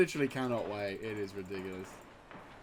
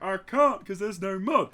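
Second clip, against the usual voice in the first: louder, higher complaining; mock whine; 8 semitones higher, 10 dB louder than usual. Streamer imitating himself answering commenters, mock whining. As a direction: protest like a frustrated kid. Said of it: "And I'll be like".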